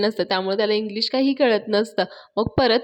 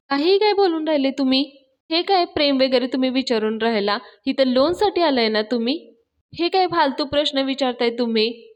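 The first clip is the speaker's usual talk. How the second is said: irritated protest; 4 semitones higher than usual. Acted. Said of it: "पाण्या पण चिडलेला असतो".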